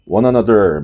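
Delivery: 미국식 "one another" R 살려 느리고 크게; 미국식으로 끝 R 굴리기; American one another. Shown as a demonstration. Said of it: "미국 발음이 이렇게 R 발음이 확실하니까". (미국식 "one another")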